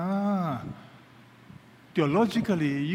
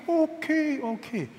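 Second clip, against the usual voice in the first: mock numb answer; 9 semitones higher, slower than usual.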